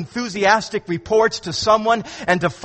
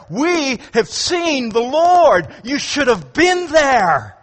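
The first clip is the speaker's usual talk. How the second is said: enthusiastic report; 4 semitones higher, slower than usual. Acted. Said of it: "enthusiastic, glad report".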